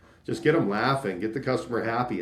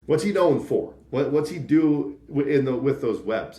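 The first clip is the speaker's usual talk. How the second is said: higher and louder, egging them on; eager salesman; 4 semitones higher, 4 dB louder than usual. Retold or imitated. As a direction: lean in, all enthusiasm about Spider-Man. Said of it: "And it was like".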